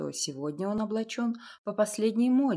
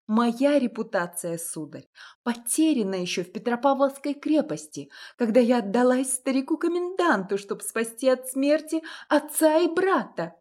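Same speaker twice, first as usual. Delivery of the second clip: higher, louder, bitter confession; bitter outburst; 5 semitones higher, 5 dB louder than usual. A narrator's reading. A woman throws her painful past at the suitor, bitter. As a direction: fling it at him, wounded.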